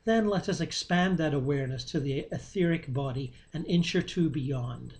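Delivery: unhurried meditation guidance with long pauses; guided meditation. Real, not acted. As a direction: guide listeners gently, leaving space between phrases.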